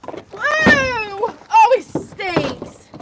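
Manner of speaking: disgusted groan at a bad stench; smelling something awful. Real, not acted. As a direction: recoil from a foul smell. Disgusted by the stinking trash.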